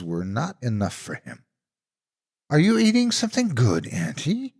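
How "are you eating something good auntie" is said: much higher, bright greedy asking; a hungry kid begging; eager child. A narrator's reading. Hungry little brother asking auntie, eager. Greedy boy asks monster.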